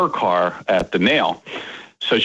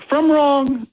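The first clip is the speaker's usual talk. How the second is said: imitated yell back; 14 semitones higher than usual. Daughters answer their dad's motto, high mock yell. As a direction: shout the answer back like a child. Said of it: "they would yell back".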